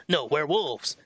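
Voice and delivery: put-on "werewolves" in a Kiwi accent, said flat and falling as a correction. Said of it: "since they have the Kiwi accent".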